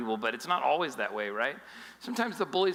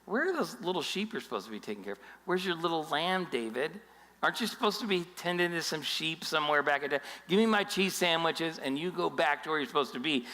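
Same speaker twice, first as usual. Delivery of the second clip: condescending. Retold or imitated. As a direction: talk down to him like a nuisance. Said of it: "you hear the condescending tone?".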